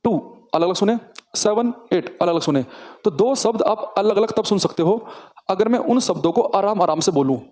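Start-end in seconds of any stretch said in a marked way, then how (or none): 0.0-2.6 slow, each word set apart; slow, spaced words. Shown as a demonstration. Teacher showing words heard separately, slow. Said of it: "आपको दो शब्द अलग-अलग सुनने हैं".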